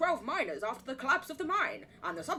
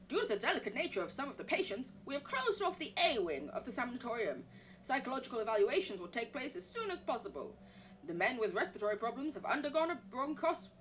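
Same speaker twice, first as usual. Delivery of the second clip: document read-aloud. Acted. Reading the sanatorium report in a put-on American accent.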